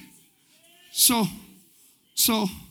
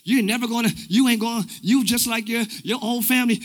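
soft, lower condemning voice; condemning enemy; 4 semitones lower, 9 dB quieter than usual. Acted. Enemy lying to a believer about family, quiet condemnation. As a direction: quietly plant doubt, softly acted. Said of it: "or it's condemning".

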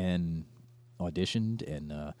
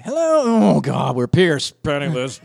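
put-on British stage accent; 6 semitones higher, 11 dB louder, slower than usual. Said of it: "that microphone's like a trigger".

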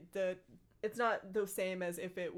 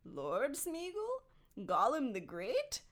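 theatrical, drawn-out boasting, rising high on the titles; stagey creature puffing himself up; Gollum, grandiose; 3 semitones higher, slower than usual. Acted. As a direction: savour each title slowly, higher and grander. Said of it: "a theatrical voice".

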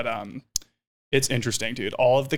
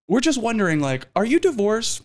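high sing-song; sweetly innocent up high; imitating her; 9 semitones higher, 3 dB louder than usual. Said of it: "She's like".

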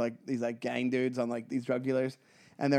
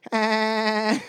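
imitated laugh; 5 semitones higher than usual. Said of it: "And he just starts laughing".

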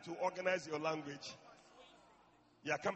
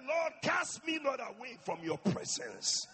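a touch of pleading prayer, building louder; David's fervent prayer; 6 semitones higher, 6 dB louder than usual. Retold or imitated. David praying for the Holy Ghost, mild pleading. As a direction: plead to God, rising to a cry. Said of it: "he said".

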